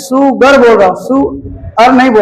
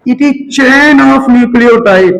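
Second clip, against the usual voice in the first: slow, word-by-word dictating pace; dictating to students; slow dictation; much slower than usual. Shown as a demonstration. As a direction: read it out slowly for notes. Teacher dictating definition to class.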